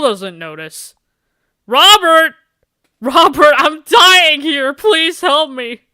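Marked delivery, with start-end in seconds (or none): 1.7-3.5 loud, high shout of his name; urgent loud call for help. Acted. Calling bleeding for help. 3.6-5.8 loud, high, slow plea; hammed-up cry for help while bleeding; mock-dramatic yell for help; desperate shout.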